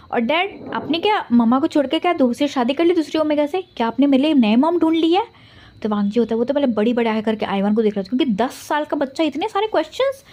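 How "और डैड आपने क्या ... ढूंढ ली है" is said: put-on higher, childlike pleading questions; child's voice. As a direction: play a hurt little boy grilling his father. Ten-year-old son questions his dad. (ऊँची, बच्चों जैसी आवाज़ में सवाल)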